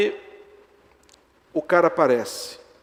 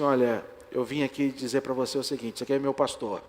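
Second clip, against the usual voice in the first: tearful; 3 dB quieter than usual. Retold or imitated. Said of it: "falando, chorando isso".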